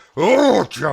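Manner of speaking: worked-up tone. Speaker catching himself getting carried away, excited. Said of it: "Sorry, a little excited".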